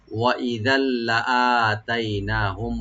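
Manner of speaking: slow, drawn tajweed recitation; slow recitation demo. Shown as a demonstration. Teacher modelling the verse for students in slow recitation. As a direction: draw the phrase out as a model. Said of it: "ওয়া open রাখবেন".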